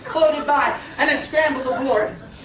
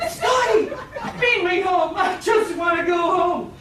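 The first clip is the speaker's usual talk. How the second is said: pleading summons; 3 semitones higher than usual. Acted. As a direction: beg comically to be rescued. Begging Scotty to send her home.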